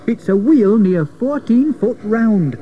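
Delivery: high, slow exclamation; amazed shout. A narrator's reading. George reports the giant wheel, an amazed shout. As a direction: announce it slowly in amazement. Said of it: "shouted George".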